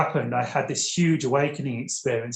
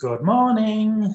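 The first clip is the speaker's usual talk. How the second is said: high, loud, otherworldly alien voice; 8 semitones higher, 5 dB louder than usual. Retelling a telepathic greeting from an ET, imitating the ET's voice. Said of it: "a voice kind of like that".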